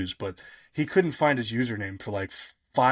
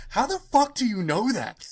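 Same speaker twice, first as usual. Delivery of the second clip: high, floored astonishment; astonished; 11 semitones higher than usual. Retold or imitated. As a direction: gasp out the question in total amazement. Michael floored by the fan.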